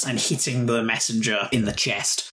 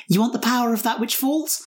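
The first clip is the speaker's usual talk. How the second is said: menacing taunt; 9 semitones higher, faster than usual. Acted. Player voices her character's taunt.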